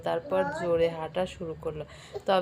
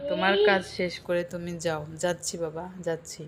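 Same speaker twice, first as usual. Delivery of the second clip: usual speaking voice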